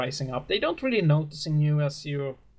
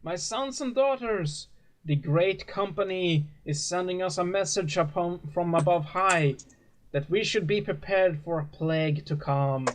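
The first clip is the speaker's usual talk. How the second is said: raised, lofty sermon voice of a gentle preacher; 4 semitones higher than usual. Acted. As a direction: preach to the flock like a kindly father. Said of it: "and the preacher says".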